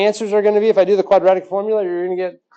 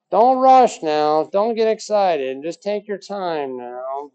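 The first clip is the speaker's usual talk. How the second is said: mock slow calm teacher; slower than usual. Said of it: "go back to original Mister Royak here".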